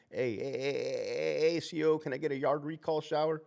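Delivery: lightly voiced inmate calling for the officer; a hint of an inmate hollering from his cell. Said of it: "I had an inmate tell me that".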